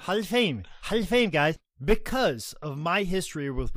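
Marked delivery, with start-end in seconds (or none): 0.0-1.6 lightly voiced Ric Flair boast; hammed-up wrestler brag; Ric Flair impression. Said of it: "Ric Flair impersonation".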